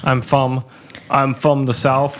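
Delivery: slow attempt at a Southern accent; badly faked Southern, R dropped from "from". Shown as a demonstration. Cohost has a go, attempted Southern accent. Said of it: "Can you do Southern accent".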